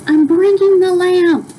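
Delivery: high, eager call. Acted. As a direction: announce it on the run. Tootie runs with lamp.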